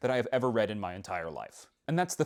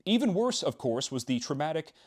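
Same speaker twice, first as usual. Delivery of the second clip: reading aloud. Acted. Reads passage from the book.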